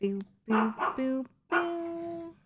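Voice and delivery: sing-song high cooing, rising. Real, not acted. Cooing at her dog.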